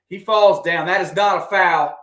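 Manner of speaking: indignant at the whistle; protesting the call. Real, not acted. Fan objecting to the referee's foul call.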